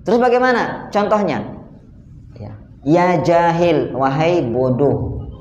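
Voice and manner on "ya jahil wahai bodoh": slow, drawn-out rebuke; deliberate demonstration of stern reproach; harsh rebuke. Shown as a demonstration. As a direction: spell out the scolding slowly. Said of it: "yang keras. Ya mungkin pakai intonasi yang lebih tinggi".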